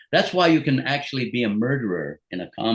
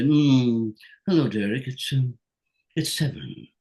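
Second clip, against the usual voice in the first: lightly imitating old friend; slower than usual. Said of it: "he had that way of".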